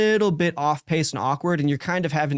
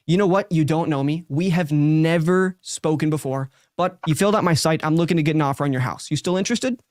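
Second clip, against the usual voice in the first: fast, to the point. Shown as a demonstration. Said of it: "It's fast. It gets to the point".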